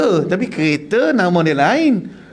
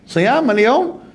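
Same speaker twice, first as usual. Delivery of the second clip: Arab man asking; 6 semitones higher, much slower than usual. Retold or imitated. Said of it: "Arab tanya".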